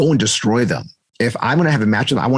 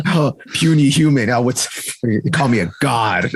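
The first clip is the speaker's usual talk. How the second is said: gloating villain voice; slower than usual. Retold or imitated. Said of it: "he does talk like that".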